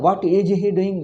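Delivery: slow imitation of a North Indian accent. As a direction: mimic North Indian English slowly. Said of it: "They will talk like that".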